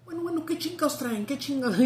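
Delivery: hammed-up annoyed Mexican; a boy faking a Mexican to immigration, mock-indignant; acting Mexican. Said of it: "And he goes".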